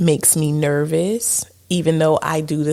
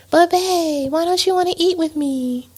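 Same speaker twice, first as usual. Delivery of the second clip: pleading; 13 semitones higher than usual. Retold or imitated. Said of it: "And I'm like".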